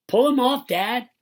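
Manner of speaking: put-on high, loud kid's suggestion; high-pitched urgent shout; eager calling. A narrator's reading. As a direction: call it out to Dad. Kid calls out suggestion.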